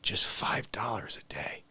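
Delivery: soft, slow pleading ad read; charity ad voice. Retold or imitated. Imitating an eighties charity ad, soft and slow. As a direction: plead gently like an old charity commercial. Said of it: "They're like".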